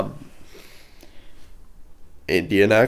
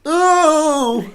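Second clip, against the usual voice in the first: sudden high, loud "oh"; surprised gasp; 5 dB louder than usual. Real, not acted. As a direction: caught off guard, exclaim it. Reacting to blonde Sarah.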